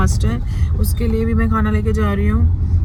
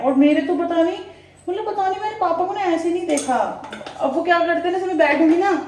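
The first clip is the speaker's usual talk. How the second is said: emotional; 7 semitones higher than usual. Real, not acted. Emotional about father.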